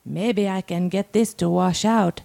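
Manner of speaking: measured reading with deliberate pauses; dramatic story reading. A narrator's reading. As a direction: read it aloud as a monologue, phrase by phrase. Reads a submitted story aloud.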